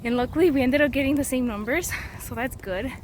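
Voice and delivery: slightly breathless, talking while walking; winded from carrying a heavy backpack; out of breath. Real, not acted. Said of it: "I'm out of breath, y'all".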